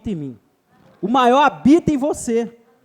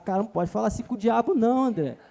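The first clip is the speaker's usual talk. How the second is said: scandalized critic; 5 dB quieter than usual. Retold or imitated. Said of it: "fica meio escandalizado".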